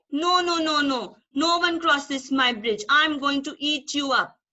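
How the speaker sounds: loud, grumpy troll roar; angry troll. Acted. Troll blocks the goat from crossing his bridge, loud and grumpy. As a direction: bellow the refusal like a grumpy troll.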